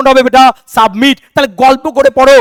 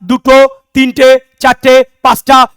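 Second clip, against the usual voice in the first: slow counting; 3 dB louder, slower than usual. Shown as a demonstration. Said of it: "কতগুলো শব্দ বললাম?".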